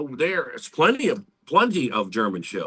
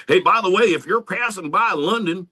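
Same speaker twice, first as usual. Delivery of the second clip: higher, mock English promoter accent; lightly done English accent pitched up; put-on English accent; 6 semitones higher than usual. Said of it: "I'm just doing a completely different accent".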